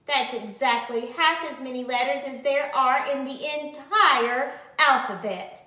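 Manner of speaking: a loud, showy tattle; exclaimed. Acted. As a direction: proclaim it to the whole class. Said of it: "Victoria exclaimed".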